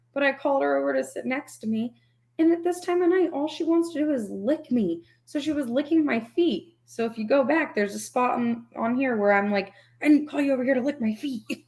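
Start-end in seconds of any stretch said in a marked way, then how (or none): 10.0-11.4 stern, firm, pointed scolding. Retelling scolding her for licking feet: retelling own whisper-yell. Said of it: "I was whisper yelling at her".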